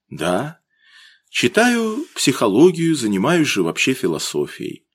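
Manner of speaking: plain reading voice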